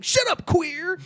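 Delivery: high, sharp comic retort; mock yelling. Sketch bully silencing the man questioning him, mock yelling. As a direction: imitate an angry outburst. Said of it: "Why are you yelling at me?".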